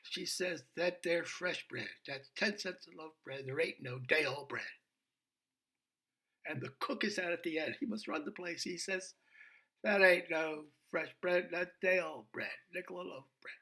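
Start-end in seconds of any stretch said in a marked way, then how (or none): 0.8-4.6 surly waitress. Retold or imitated. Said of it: "she's a surly". 9.8-13.5 firm cook. Retold or imitated. Cook overrules the waitress.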